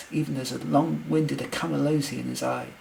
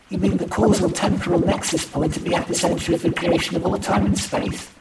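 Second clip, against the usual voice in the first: high, loud, a touch breathless; breathless awe, voice lifted; breathless question; 6 semitones higher, 11 dB louder than usual. A narrator's reading. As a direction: ask it in raised-pitch wonder. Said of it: "I asked breathlessly".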